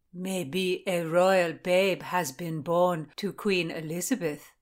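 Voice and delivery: slow, drawn-out character voice; joking. A narrator's reading. Doradine jokes about a royal babe, slow and teasing. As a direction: tease it out slowly. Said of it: "Doradine joked".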